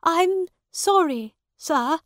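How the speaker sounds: high, loud, pleading apology; begging. A narrator's reading. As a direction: beg the judge as a woman. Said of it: "begged the woman".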